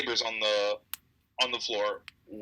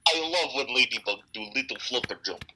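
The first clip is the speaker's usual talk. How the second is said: put-on baby talk. Baby talk about ladybug.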